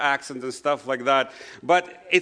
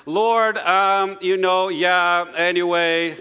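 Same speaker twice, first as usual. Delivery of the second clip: louder, level, drawn-out fillers; WhatsApp voice-message prayer; 4 dB louder, slower than usual. Shown as a demonstration. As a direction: imitate a young person rambling a prayer into a voice message. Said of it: "that's a WhatsApp voice message accent".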